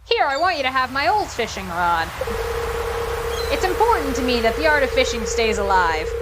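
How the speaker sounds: vague old sea-dog accent, lightly put on; Willy sailor accent. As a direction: play the old fisherman with a loose sailor accent. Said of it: "I don't know what accent I'm apparently doing".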